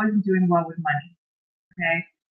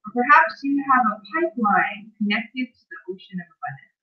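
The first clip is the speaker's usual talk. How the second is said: guided visualization reading. Acted. Host reads a bedtime visualization to live viewers, measured guided-meditation delivery. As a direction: lead listeners through it phrase by phrase, unhurried.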